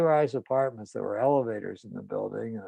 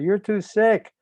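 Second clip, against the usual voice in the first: imitated frantic mother, high and loud; retold upset yelling, pitched well up; 5 semitones higher, 6 dB louder than usual. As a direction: rail at the son in a raised, higher pitch. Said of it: "she starts crying and yelling".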